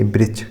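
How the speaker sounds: "वृक्ष" as brichchh, starting on b; Chhattisgarhi pronunciation. Shown as a demonstration. Teacher repeats the dialect example, "वृक्ष" said brichchh. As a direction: say "वृक्ष" with b for v and chh at the end. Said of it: "वृक्ष नहीं कहेंगे".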